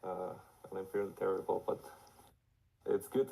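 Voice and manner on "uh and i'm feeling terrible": hoarse from being sick; raspy, sick voice. Real, not acted. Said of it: "apologize for my raspy voice".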